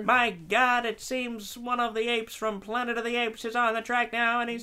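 excited race caller; mock sports commentary, building; announcer voice. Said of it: "you had that announcer voice".

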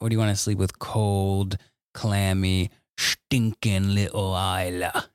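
drawn-out mock disgust on the nickname; teasing bedtime line. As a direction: stretch "stinking little Isla" slowly, in play. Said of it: "I always do this thing".

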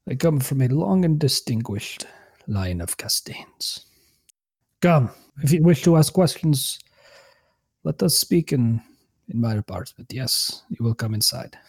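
lightly voiced frail old man; a hint of a proud old scholar. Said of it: "I am very old man".

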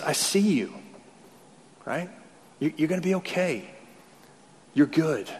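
softly voiced blessing; tender reassurance. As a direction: reassure gently, as if comforting a loved one. Jesus speaking words of blessing.

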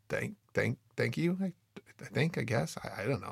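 soft, halting, unsure thanks; hesitant. Retold or imitated. Instructor to student planning solo dives, hesitant. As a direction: stammer out a doubtful thank-you.

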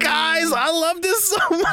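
high, gushing fan squeal; excited squeal. Real, not acted.

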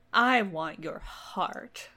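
very slow, deliberate demand; slow declaration. Acted. Fairy slowly telling the king she wants his heart. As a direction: draw each word out.

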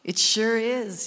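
deep, slow divine pronouncement; voice of God. Retold or imitated. God answering the preacher's prayer, deep and slow. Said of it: "he says".

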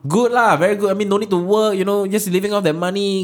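Wesley. Acted.

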